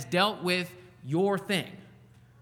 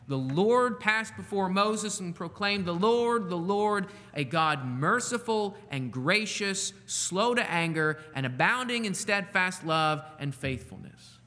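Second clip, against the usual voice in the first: scripture proclamation; 2 semitones higher, slower than usual. Acted. Pastor reading God's self-description, slow and proclaimed. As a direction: proclaim the name with reverence.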